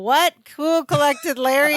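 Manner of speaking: high, disbelieving What; mock astonishment; incredulous. Real, not acted. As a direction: scoff in disbelief at the idea. Disbelief at Larry's calm.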